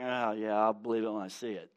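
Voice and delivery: quiet, dismissive "oh yeah"; sceptical scoff. Retold or imitated. Hopeless person scoffing at good news, quiet and doubtful. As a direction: brush it off, unconvinced. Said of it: "you're like".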